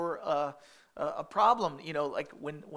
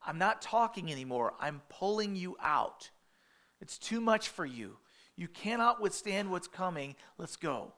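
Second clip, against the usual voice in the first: urgent rescue; 3 dB louder than usual. Retold or imitated. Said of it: "grabbing them by the hands and going".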